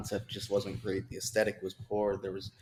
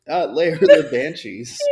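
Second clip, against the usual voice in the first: put-on Scottish accent; 5 semitones higher, 15 dB louder than usual. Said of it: "it's so much like Shrek".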